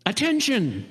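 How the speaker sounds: lightly voiced high call of a bird-like voice; a hint of a nasal oboe-like cry. Reading a novel's opening, a strange voice calls out. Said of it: "in the same high nasal monotone".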